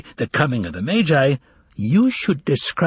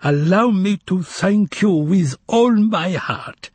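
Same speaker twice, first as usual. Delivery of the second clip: heartfelt thanks; 7 semitones higher, slower than usual. Acted. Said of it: "uttered these words".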